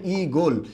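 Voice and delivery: ই গোল as two parts, long ee then gol; model pronunciation. Shown as a demonstration. Teacher modelling the word's pronunciation, ই গোল with long ee. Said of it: "আমরা এটার উচ্চারণটা কী হবে".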